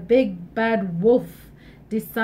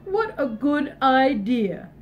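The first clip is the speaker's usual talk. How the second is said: wolf voice; slower than usual. Acted. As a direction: lure her in slowly like a wolf. Wolf's voice.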